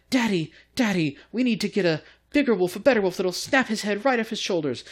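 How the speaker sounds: put-on high-pitched spoiled little rich boy; Lucius Malfoy. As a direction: imitate a brat pleading with his father. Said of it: "Lucius Malfoy. Think about, like, how he talks".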